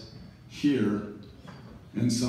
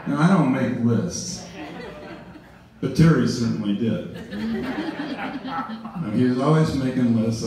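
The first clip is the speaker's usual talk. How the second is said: laughing; 2 semitones higher, slower than usual. Real, not acted. Laughing fondly about Terry's lists.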